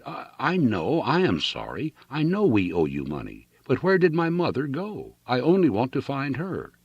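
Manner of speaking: stammer, then beg for her mother; faltering plea. A narrator's reading. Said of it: "she faltered".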